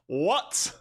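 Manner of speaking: high, drawn-out incredulous question; mock disbelief. Streamer reacts to the ear jibe, high mock disbelief. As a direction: stretch it upward as if stunned.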